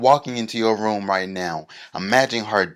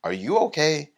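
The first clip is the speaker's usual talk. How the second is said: put-on concerned old man; 7 semitones higher than usual. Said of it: "And he goes".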